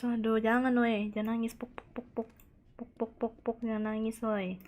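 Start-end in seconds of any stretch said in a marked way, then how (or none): 1.5-3.6 soft whispered puk, puk, puk; soothing pat sounds. Acted. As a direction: pat a crying child gently. Comforting a crying child. (menenangkan anak dengan berbisik)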